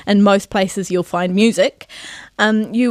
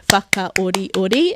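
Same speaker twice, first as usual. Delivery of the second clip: Whakaoriori slow and rhythmic, like a drum beat; slower than usual. Shown as a demonstration. Teacher likening speech to a drum, rhythmic beat on Whakaoriori. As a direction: beat out Whakaoriori evenly from a stressed first syllable. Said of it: "it's almost like a drum beat".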